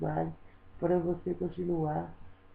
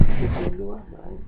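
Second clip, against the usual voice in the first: much louder, urgent begging; near-shouted plea; 10 dB louder than usual. Real, not acted. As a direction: push the plea out loud and hard. Desperate plea to Celso. (súplica quase gritada)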